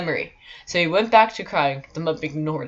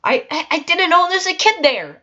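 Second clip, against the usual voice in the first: squeaky whisper; 13 semitones higher, 9 dB louder than usual. Retold or imitated. High whispered mock protest.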